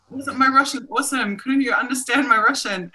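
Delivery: fishing for praise brightly; proud excited. Retold or imitated. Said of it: "I said to Ksenia".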